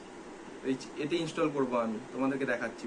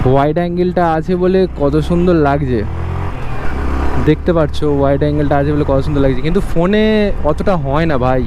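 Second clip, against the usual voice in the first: talking over wind noise; 14 dB louder than usual. Real, not acted. Riding motorbike, talking over engine.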